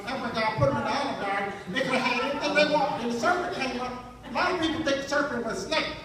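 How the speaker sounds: lightly voiced church lady storytelling; Madea preaching. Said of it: "Madea as Sunday school teacher".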